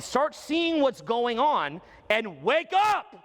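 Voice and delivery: rising, drawn-out rallying cry; slow and swelling, rouse the crowd; booming motivational speech. Acted. Rallying audience to wake up.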